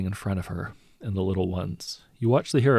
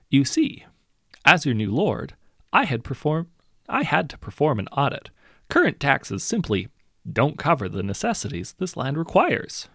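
higher, louder, falsely sorry; hollow fake sympathy; 6 semitones higher, 4 dB louder than usual. A narrator's reading. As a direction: pretend to care while squeezing them. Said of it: "He sounds hollow. Fake".

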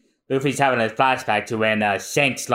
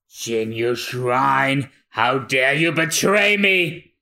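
outraged captain; 2 semitones higher, slower than usual. Acted. Krieg outraged at betrayal.

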